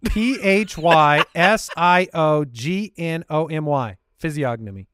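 slow letter-by-letter spelling; sounding out words. Real, not acted. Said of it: "He sounded it out".

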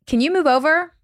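high, rising question; retold polite request. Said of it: "And I was like".

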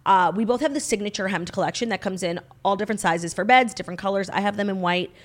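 scripted podcast sponsor read; measured, presentational promo delivery. Acted. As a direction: read it as a friendly host-read advert. Reads a sponsor ad.

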